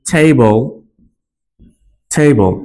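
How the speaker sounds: table as "tay-bol", no sound for the E; silent final E. Shown as a demonstration. Teacher models table with silent final E. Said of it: "B L ই বল".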